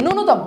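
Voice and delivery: one light n after the u in "ন্যূনতম"; correct pronunciation. Shown as a demonstration. Teacher repeating the right form, pronounced with single n. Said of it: "এটা উচ্চারণটা কি?".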